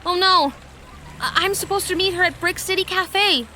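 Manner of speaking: loud, high panicked outburst; suddenly remember you're late; alarmed realization. Acted. Janelle realizing she's late meeting Sonia, panicked.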